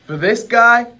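loud, easygoing genie guru; laid-back street-wise genie; cool guru voice. Acted. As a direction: play it smooth and relaxed, a genie with swagger. Acted guru lines.

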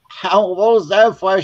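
imitated indignant protest. Kid swatted by Mom with towel, high indignant protest.

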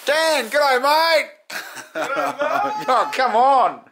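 high, excited dog's voice; high, giddy pet voice; voicing the dog. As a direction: speak as the happy dog greeting everyone.

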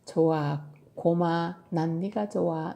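tender affection. Acted. Tilly tells her bear she likes it, tender affection. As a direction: settle down lovingly, voice eased.

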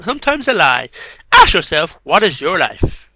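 deliberate recital with weighty pauses; poem reading. Acted. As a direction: let each question hang like verse. Reads poems aloud.

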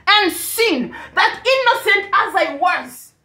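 emphatic sermon delivery with punched phrases; impassioned preaching. Real, not acted. Preacher declaring to women who they are not, impassioned preaching. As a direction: drive it home in insistent repeated lines. Preaches at full force to congregation.

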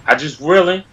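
loud attention-getting yo; calling out. Acted. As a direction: hail the crowd. Calling out to viewers.

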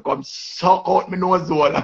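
imitating a crude insult; mock cuss. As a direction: draw it out, taunting. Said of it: "Queenie just come out like that and say".

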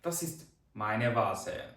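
very slow, careful German example; slow model sentence. Shown as a demonstration. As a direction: spell the sentence out slowly for learners. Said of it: "получається meine".

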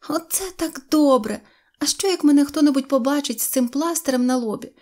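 high-pitched dismayed complaint; fretful little girl. A narrator's reading. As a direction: fuss in a high girl's voice. Синьоочка frets at the mirror. (схвильована обурена дівчинка)

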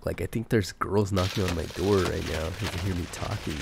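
low voice from a cold; sick deep voice. Real, not acted. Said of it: "I got, like, this cool, sexy voice going on".

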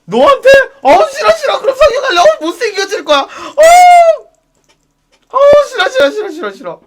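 half-laughing, half-sobbing mock whine; whiny disgust. Wailing no at the pushy club guy. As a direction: whimper no over and over like a spoilt child. Shrieking refusal.

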